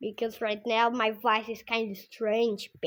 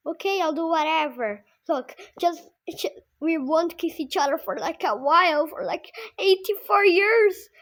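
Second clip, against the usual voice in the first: high mom voice; 7 semitones higher, 6 dB louder than usual. Retold or imitated. Mom pleading with lover.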